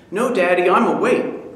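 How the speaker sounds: put-on high child's answer; little boy. Son answering his father, high child voice. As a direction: answer like a wide-awake boy.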